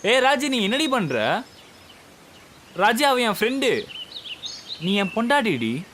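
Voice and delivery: exasperated appeal. Acted. Husband pleads with upset wife.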